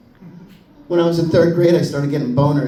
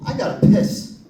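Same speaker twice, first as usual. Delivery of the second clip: put-on high, strained little-boy urgency; a boy on second base who badly needs to pee; desperate kid. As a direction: squeak it out, bursting to pee.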